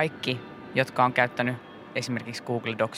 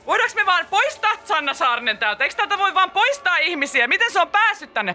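much higher, louder frantic pleading with a laugh; panicked yelling; 4 dB louder than usual. Retold or imitated. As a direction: squeal it out in mock panic. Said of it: "Pietari huutaa, siis ihan paniikissa, vähän itkee".

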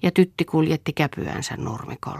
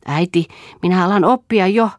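louder, higher call across the water; a boy shouting proudly to his mother; child's eager call from the lake; 5 semitones higher, 5 dB louder than usual. A narrator's reading. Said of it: "huusi hän välillä Lealle".

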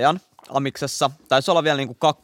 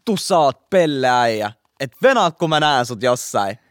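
retold shouted threat; 4 dB louder than usual. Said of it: "mä huusin sille jotain".

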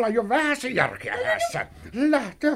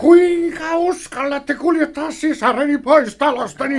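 loud, higher indignant demand; 5 semitones higher, 4 dB louder than usual. Acted. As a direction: demand an answer in outrage. Brother confronts the eloper. (veli tivaa vihaisesti karkuria)

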